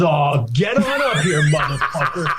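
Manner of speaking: retold shout at a heckler; mock shout. Comic recalling the heckler being yelled at, mock shout. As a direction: call him up, hammed-up yell. Retelling Kenny yelling at heckler.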